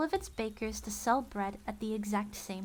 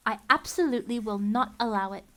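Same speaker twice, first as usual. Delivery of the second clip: louder, adamant objection; firm refusal; 6 dB louder than usual. Acted. Mister Poe refusing Count Olaf, loud and adamant. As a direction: plant your feet and refuse.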